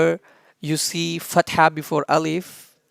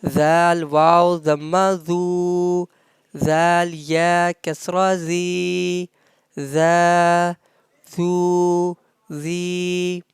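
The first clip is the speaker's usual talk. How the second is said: Arabic spelling drill; 3 dB louder than usual. Shown as a demonstration. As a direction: chant each syllable clearly like a teacher. Arabic letter-vowel recitation drill. (تلاوة تعليمية بطيئة للحروف)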